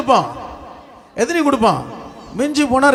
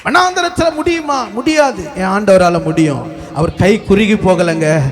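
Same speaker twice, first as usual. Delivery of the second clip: impassioned preaching; 3 semitones lower than usual. Real, not acted. Preacher promising the congregation God will provide, impassioned preaching. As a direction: proclaim each promise with building force.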